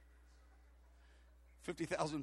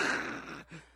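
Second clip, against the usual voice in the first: rough unpitched explosion noise; mimicked blast of power; imitated burst noise. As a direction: blow out a noisy burst with the mouth.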